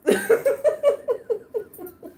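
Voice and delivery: long high laugh. Real, not acted. His mom overhearing, long high laugh. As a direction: laugh at the absurdity.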